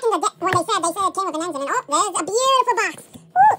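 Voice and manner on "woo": sudden high, loud whoop of delight; excited woo. Real, not acted. Collector whooping at his new toy box, loud and high. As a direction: whoop as the box comes into view.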